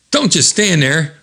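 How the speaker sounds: high-pitched urging, acted out; rally the team like a comic hero; comic-book call to action; rallying cry. Comic hero rallies his team.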